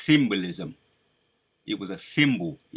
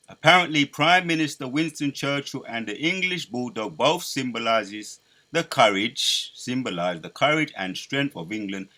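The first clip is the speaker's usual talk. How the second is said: put-on louder, grand British Churchill accent; Churchill impression; 3 semitones higher, 5 dB louder than usual. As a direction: hold the mock Churchill orator voice. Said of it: "I'm even mocking his, his accent".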